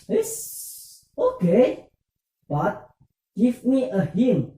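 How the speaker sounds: coaxing. Acted. Student coaxing teacher for a hint.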